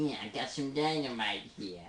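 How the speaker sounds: lightly voiced hatless goblin; the same hint of a goblin. Shown as a demonstration. Goblin without the hat has dynamite, goblin voice. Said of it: "goblin without the hat saying that".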